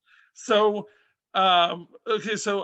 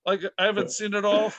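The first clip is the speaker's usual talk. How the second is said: aunt's voice; 3 semitones higher, 3 dB louder than usual. Retold or imitated. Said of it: "and she goes".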